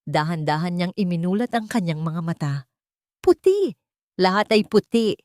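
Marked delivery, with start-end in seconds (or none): 3.2-5.2 a sudden, much higher and louder cry of shock; startled exclamation. A narrator's reading. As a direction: gasp it out as the white room hits him. Waking shocked in a hospital. (gulat na sigaw, mataas at malakas)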